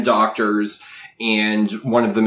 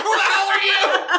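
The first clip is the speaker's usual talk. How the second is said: startled outburst. Retold or imitated. Sister-in-law startled, laughing.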